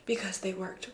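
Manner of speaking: hushed, breathy mock reverence; mock-solemn whisper. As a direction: whisper it like an ancient secret. Mock-solemn tradition speech.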